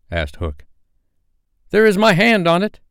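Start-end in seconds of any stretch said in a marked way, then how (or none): 1.7-2.8 high, loud pirate pledge; hearty henchmen in a high voice; pirates swearing loyalty. A narrator's reading. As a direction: swear it eagerly, pitched high. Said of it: "they both said".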